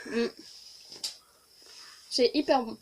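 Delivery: whispered through a mouthful; mouth full. Real, not acted. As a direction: murmur it while still chewing. Tasting with food in mouth.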